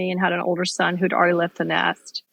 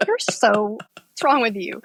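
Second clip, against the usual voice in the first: kids' mock. Kids mocking crying parent.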